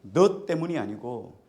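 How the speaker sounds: loud, slow, drawn-out declaration; powerful divine message. Retold or imitated. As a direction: voice God's emphatic correction, loud and slow. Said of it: "하나님의 아주 강력한 메시지로".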